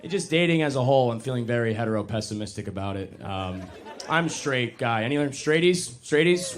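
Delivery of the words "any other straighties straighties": rallying call to the crowd, rising. Real, not acted. Comic asks audience for fellow straighties, calling out. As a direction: call out hopefully, louder the second time.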